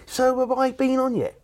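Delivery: high, slow, dopey impression; Lee Evans off stage. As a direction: drag it out in a high comic voice. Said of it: "But off, he'd be like".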